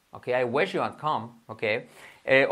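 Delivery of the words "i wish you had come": measured but linked-up English example; connected repeat. Shown as a demonstration. Teacher repeats the translation for learners, more connected. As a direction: run the words together, still unhurried.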